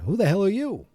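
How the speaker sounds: high-pitched mock bewilderment; lightly hammed-up disbelief; baffled retort. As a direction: act out a startled "who are you?". Marty startled by unfamiliar Jennifer.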